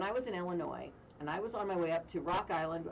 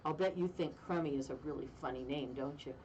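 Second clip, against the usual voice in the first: looming mortician; 4 semitones lower than usual. Retold or imitated. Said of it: "he leans down at me".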